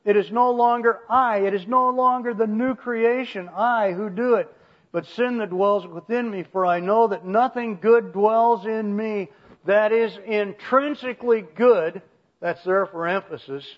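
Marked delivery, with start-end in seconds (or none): 0.0-12.0 louder, higher scripture reading; emphatic Paul. Acted. Preacher reading Paul's anguished confession aloud, emphatic. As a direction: declare it firmly as Paul. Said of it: "So he says this".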